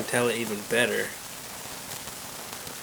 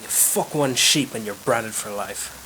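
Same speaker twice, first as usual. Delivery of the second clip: slow, mildly grumbled Irish punchline; understated Irish aside, taken slowly; under his breath, Irish; slower than usual. Acted. William sighs over his Guinness, Irish-accented aside. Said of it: "under his breath he says".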